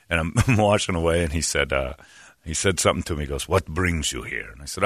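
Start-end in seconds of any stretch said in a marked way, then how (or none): 3.5-4.5 lightly imitated low attendant; soft, suave small talk; beautiful speaking voice. Attendant questioning a customer, beautifully spoken. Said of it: "He's got a beautiful speaking voice".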